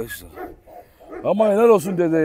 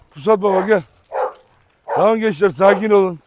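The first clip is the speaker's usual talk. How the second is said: calling the dogs; 3 semitones higher, 5 dB louder than usual. Real, not acted. Owner calling his dogs to calm down, louder.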